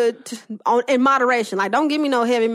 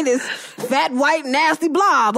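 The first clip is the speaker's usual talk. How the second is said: mock disgust; 3 semitones higher, much slower than usual. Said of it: "nice choice of words".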